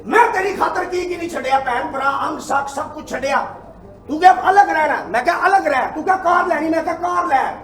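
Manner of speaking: mildly heated wronged-husband tirade; outrage demonstration. Shown as a demonstration. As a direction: reproach the wife as a betrayed husband. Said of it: "मैं तैनूं दसना गैरत किवें जागदी". (ਠੱਗੇ ਗਏ ਪਤੀ ਦਾ ਨਾਟਕੀ ਉਲਾਂਭਾ)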